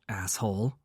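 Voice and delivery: a soft muttered insult under the breath; mild muttered jab. A narrator's reading. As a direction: mutter it, half-amused. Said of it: "with a muttered".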